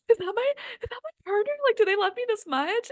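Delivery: stunned, squeaky rush of wonder; astonished disbelief. Retold or imitated. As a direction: gasp out the question in amazed wonder. Retelling her own startled question.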